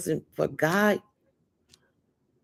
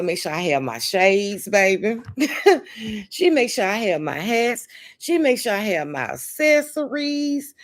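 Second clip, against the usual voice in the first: excited bragging; 3 semitones higher than usual. Real, not acted. Showing off her gifts to the live viewers, excited and high. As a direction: pitch jumps up high, bubbling with delight.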